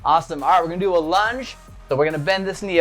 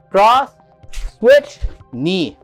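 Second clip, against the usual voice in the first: shouted drill commands; 3 semitones higher, 5 dB louder, much slower than usual. Shown as a demonstration. Calling out combo with knee.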